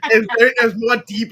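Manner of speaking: loud, deep, smoky voice; deep smoker voice. Retold or imitated. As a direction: voice like she smokes a cigarette. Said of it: "it's like she's smoking a cigarette".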